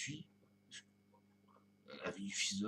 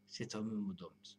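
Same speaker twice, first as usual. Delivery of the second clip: each word drawn out very slowly; slow, deliberate; much slower than usual. Acted. Musing vlogger savouring his own phrase, very slow. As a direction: lay it down slowly, like a solemn line. Repeats the phrase two ways.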